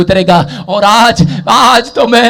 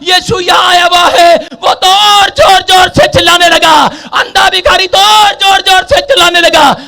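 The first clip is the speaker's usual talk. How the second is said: loud, high-pitched sustained sermon delivery; full-force preaching; 10 semitones higher, 5 dB louder than usual. Acted. Preacher retelling Jericho to the congregation, full-force preaching. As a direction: preach it in a driving, unbroken shout.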